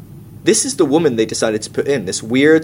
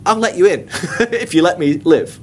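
mock selfish bargain; 5 semitones higher than usual.

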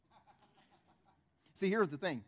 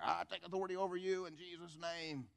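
softer, put-on pious declaration; mock fancy prayer; 7 dB quieter than usual. Believer claiming authority over devil, mock pious intoning. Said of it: "like some fancy prayer".

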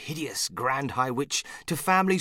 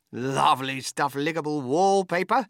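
higher and louder, delighted; excited cry; 3 semitones higher, 5 dB louder than usual. Acted. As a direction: show off the wallpaper with glee. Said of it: "cried Mister Wonka".

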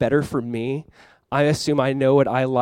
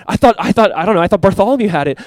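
raised, louder flustered comeback; mock arguing; 4 semitones higher, 5 dB louder than usual. Preacher voicing a disciple shifting blame for the bread, arguing. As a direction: stammer out an imitated defence. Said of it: "They're, like, arguing".

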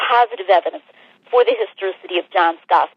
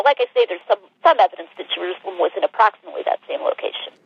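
phone line sound; over the phone. Real, not acted. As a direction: narrow telephone audio. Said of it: "we're on the phone right now".

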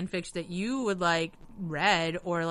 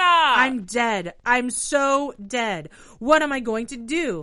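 panicked; 4 semitones higher, 8 dB louder, slower than usual. Acted. Reading fanfic in character panic.

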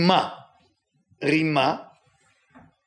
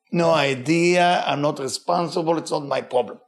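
oblivious shrug. Pretend. The oblivious person shrugging off blame, careless. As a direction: brush it off like it's nobody's business. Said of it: "is called oblivious".

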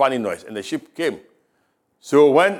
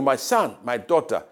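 voice of God; 3 semitones higher than usual. Acted. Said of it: "hear that voice of God telling you".

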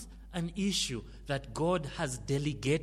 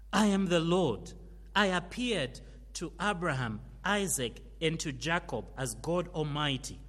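scripture reading; 3 dB louder than usual. Acted. Reads God's words to Moses.

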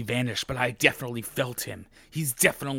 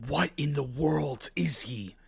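whispering; 2 semitones higher, slower than usual. Acted. Reading Valentine's shocked line.

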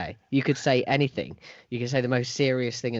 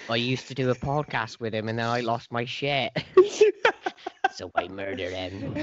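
West Country accent. Shown as a demonstration. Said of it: "in a West Country accent".

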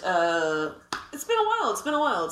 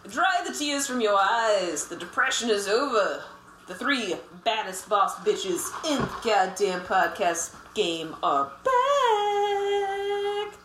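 slow hyped show intro; announcer voice; slower than usual. Acted. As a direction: announce it big.

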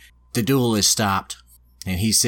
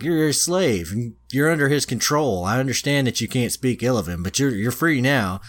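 higher-pitched, acted explaining; retold protest; 5 semitones higher than usual. Lance hero justifying himself to the freed girl, protesting. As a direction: plead the case, pitched up.

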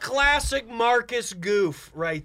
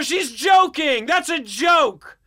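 insistent shouting; 3 semitones higher than usual. Acted. Insisting voicemail was joke.

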